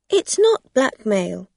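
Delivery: loud quick denial; defensive. Acted. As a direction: deny it fast. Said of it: "said Rosa quickly".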